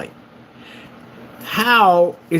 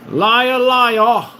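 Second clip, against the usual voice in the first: put-on higher, louder childish taunt; sing-song taunt; 10 semitones higher, 5 dB louder than usual. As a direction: taunt him like a schoolyard kid. Taunting the rival.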